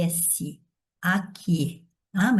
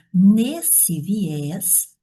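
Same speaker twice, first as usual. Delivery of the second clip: slow dictation; 3 dB louder than usual. Shown as a demonstration. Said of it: "dictating while writing".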